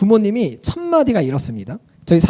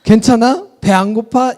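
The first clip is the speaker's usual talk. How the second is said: mock caring parent; 4 semitones higher, 4 dB louder than usual. Shown as a demonstration. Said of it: "이러지 않".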